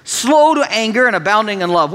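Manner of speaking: mock God's kindness as if it were a fault; sarcastic told-you-so. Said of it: "you get his "I told you so" tone".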